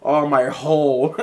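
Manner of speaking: mild mock wail, drawn out slowly; retold scream. Retelling a wrestler hurting her butt, mild mock scream. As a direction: stretch it out as a half-hearted scream. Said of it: "she screamed".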